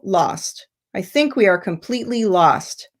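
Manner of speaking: "lost" as a firm, falling final word; emphatic falling ending. Shown as a demonstration. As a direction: make it definite, dropping the pitch on "lost". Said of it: "that emphasis on the final word".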